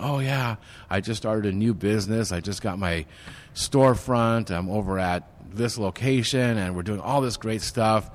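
excited new business owner. Retold or imitated. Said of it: "who's going".

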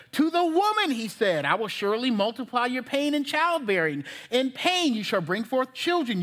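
measured, declamatory Bible reading; scripture reading. Real, not acted. Preacher reading God's curse to the congregation, declamatory scripture reading. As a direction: read each verse out firmly with steady cadence.

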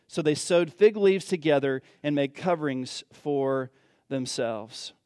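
scripture reading. Acted. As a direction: read the passage reverently, unhurried. Reads Genesis passage aloud.

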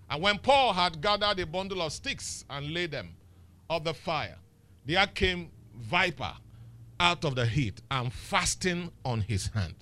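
slow, deliberate Bible reading; scripture reading. Acted. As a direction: read the verse out slowly and solemnly.

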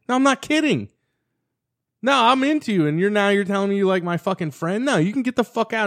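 high-pitched, indignant retold outburst; angry. Teen rejects her asking about his friend, indignant. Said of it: "I was angry".

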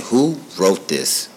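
slow, stunned "who wrote this"; awed. Retold or imitated. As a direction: drag it out in wonder. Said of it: "I'm just saying".

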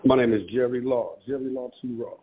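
muffled, like through a wall. Real, not acted. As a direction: voice dull and boxed in. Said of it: "you sound muffled".

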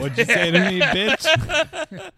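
mock angry. Voicing Boss Baby picture roasting.

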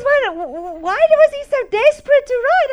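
high, stammering comic question; imitating insistent visitor. Visitor pressing about his writing, high stammering insistence. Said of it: "She says".

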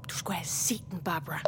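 sagte og dybere, til en fortrolig; fortrolig sidebemærkning. Acted. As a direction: drop stemmen som i en aside. Fortrolig bemærkning til Barbara. (dæmpet og fortroligt)

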